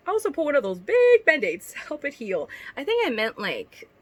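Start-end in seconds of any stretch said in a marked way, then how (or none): 0.1-2.5 lightly performed read-aloud of a cringey story; reading fanfic aloud. Acted. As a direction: read it like a story you're embarrassed by.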